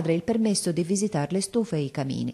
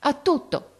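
raised, heartfelt exclamation; exclaimed; 9 semitones higher than usual. Acted. Silvia hugging her mother, exclaiming with heartfelt feeling. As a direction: cry it out as she hugs her mother. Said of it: "esclamò".

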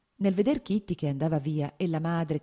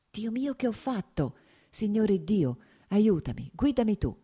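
a higher, pleading inner prayer; desperate whispered-feeling plea, pitched up; anxious prayer; 5 semitones higher than usual. Acted. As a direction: beg God for help in a hushed rush. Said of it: "diceva Lievin pregando".

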